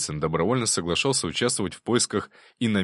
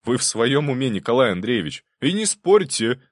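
loud, high insistent objection; firm; 5 semitones higher, 6 dB louder than usual. A narrator's reading. Prince insisting the baron accept the house. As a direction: insist firmly, no arguing. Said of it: "твёрдо заявил Голицын".

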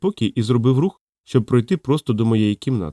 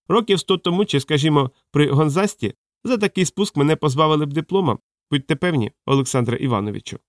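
put-on higher, apologetic old man's voice; little old man; 4 semitones higher than usual.

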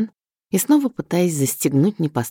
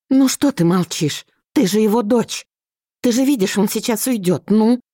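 frantic mother; 7 semitones higher than usual. Acted. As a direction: shove her daughter into speaking.

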